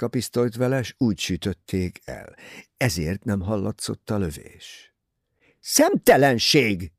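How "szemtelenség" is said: outraged, louder and slow exclamation; indignant cry. A narrator's reading. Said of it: "kiáltotta felháborodva". (felháborodott, hangos kiáltás)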